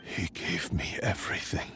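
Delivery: breathy hushed grief for the maker. Acted. Sword spirit mourning its maker, hushed and sad.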